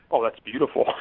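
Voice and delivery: laughing out the words with a shout of glee; laughing delight. Real, not acted. Author delighted by his wife's redneck elves idea, laughing shout. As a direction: burst out laughing at a great idea.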